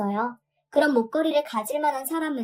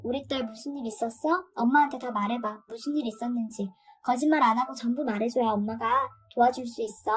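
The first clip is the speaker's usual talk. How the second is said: softer, coaxing mother's questions; gentle coaxing; 4 dB quieter than usual. Retold or imitated. Mother gently coaxing her daughter: soft, soothing questions. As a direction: ease the truth out of a scared child, softly.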